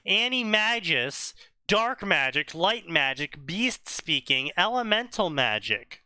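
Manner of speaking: sing-song, emphatic roll call; mock-grand list reading. Reader listing Harry's magical abilities, mock-grand sing-song recital. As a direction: lift each item, then let it drop.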